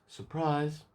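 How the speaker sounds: high, singled-out "surprise"; mock surprise reveal. Voicing killer's reveal to victim.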